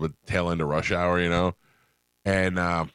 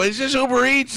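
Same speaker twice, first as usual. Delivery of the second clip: high, loud comic exasperation; imitating a frustrated phone shout; exasperated raised voice; 5 dB louder than usual. Customer struggling to make driver understand, exasperated high shout.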